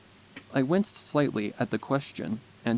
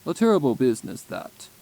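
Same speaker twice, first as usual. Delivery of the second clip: put-on a calm older stallion's voice, louder and higher; 6 semitones higher, 9 dB louder than usual. Therapist stallion comforting Twilight, calm concerned voice.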